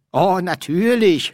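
loud, high-pitched scorn; mocking. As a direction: scoff at the idea. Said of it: "höhnte der Dekan".

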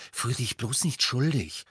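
firm, stern admonishment. A narrator's reading. Hermine advising her friend, stern. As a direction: tell them off mildly but firmly. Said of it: "sagte Hermine streng".

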